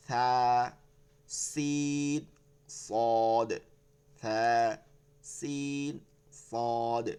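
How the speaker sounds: soft lisped "সা", thin "সিন", heavy "সদ"; soft, thin, thick. Shown as a demonstration. Teacher comparing three letters, soft, thin and thick. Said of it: "আওয়াজ হবে চিকন".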